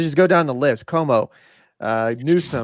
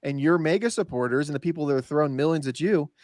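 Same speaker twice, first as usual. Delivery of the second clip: mock Trump; 3 semitones higher than usual. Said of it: "Like, Trump says".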